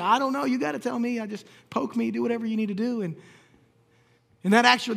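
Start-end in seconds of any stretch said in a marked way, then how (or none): 0.0-3.0 exasperated. Retold or imitated. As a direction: throw up your hands at the doctors. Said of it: "I'm like".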